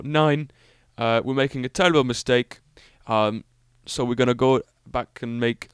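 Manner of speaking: lightly put-on, bad German accent; half-hearted German accent, badly faked; terrible German accent. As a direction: have a feeble go at a German accent. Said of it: "a terrible German accent".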